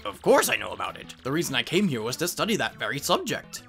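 learned professor questioning visitors; bookish professor. Acted. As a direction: play a scholarly professor.

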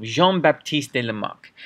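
name said with a light French accent; French-accented pronunciation of a name. Shown as a demonstration. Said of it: "Sorry for my French accent".

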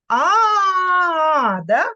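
a long, sung-out lulling A; lulling A for the doll. Shown as a demonstration. Teacher shows child how to rock doll, crooning long A. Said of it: "Колишемо ляльку і кажемо «А»".

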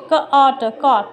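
ক, অ, ট one by one, then কট; phonics sounding out. Shown as a demonstration. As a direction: separate sounds ক অ ট, blended into কট. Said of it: "ক এর sound হবে".

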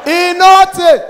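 slow, high, loud declaration; hammering the punchline home. Acted. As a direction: belt it out slowly to the crowd.

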